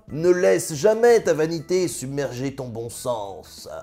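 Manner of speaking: slow, grave deathbed advice; lightly voiced dying sultan, in no hurry; solemn last words. Dying sultan passes final advice to his son, slow and solemn. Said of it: "il dit à son fils".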